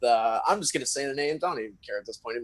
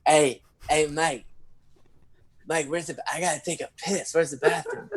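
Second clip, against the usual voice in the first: urgent friend; 4 semitones higher, 3 dB quieter than usual. Retold or imitated. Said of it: "he's like".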